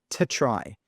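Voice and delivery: "to" reduced to a soft t plus schwa before try; weak to. Shown as a demonstration. Teacher models the weak form for learners, weak to. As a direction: say "to" as a tiny unstressed tuh. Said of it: "pronounced very softly".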